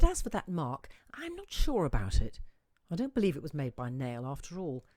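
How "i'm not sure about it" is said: whispered aside to herself; hushed doubt. A narrator's reading. Narrator whispering her uncertainty about the mark. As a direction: breathe the doubt, barely voiced.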